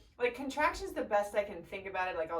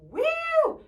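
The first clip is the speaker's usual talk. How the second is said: loud, high-pitched whoop at remembered pain; pained exclamation; 11 dB louder than usual. Retold or imitated. Mother recalls contractions to viewers, pained loud whoop. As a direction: belt out how much it hurt, drawing it out.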